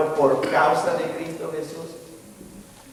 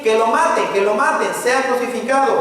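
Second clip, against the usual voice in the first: mob crying out; 5 semitones higher than usual. Acted. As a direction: act out the crowd demanding death. Preacher acts the mob crying out.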